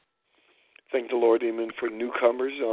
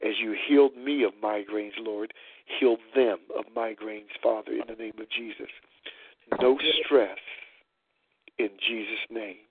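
prayer; 2 semitones lower than usual. Acted. Leads a group prayer.

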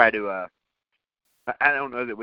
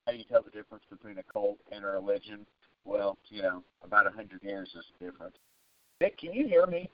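muffled garbled phone line; like talking from underwater; 5 dB quieter than usual. Real, not acted. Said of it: "You sound like you're underwater".

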